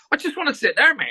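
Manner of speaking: high mock voice of the pushy stranger. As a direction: pitch it right up, mimicking the bloke who wants in. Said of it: "And he's like".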